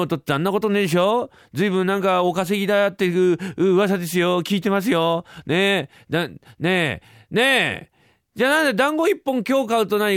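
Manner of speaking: put-on wheedling child pestering a parent; a touch of a pushy little boy; lightly voiced cheeky boy. Boy needling his father over one dumpling, lightly voiced.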